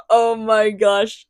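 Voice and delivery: slow swooning oh my gosh; drawn-out gushing oh my gosh. Real, not acted. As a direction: melt over the characters. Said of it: "I love them".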